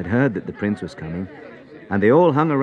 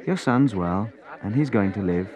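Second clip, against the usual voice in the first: gentle. Acted. Jesus gently telling the prince his son lives. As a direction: reassure him kindly. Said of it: "said gently".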